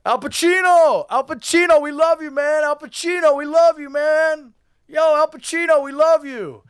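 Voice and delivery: high-pitched mock fan shouts; strained high hollering, held back in volume; imitated yelling. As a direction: cheer like adoring fans calling a star. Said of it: "and they're yelling".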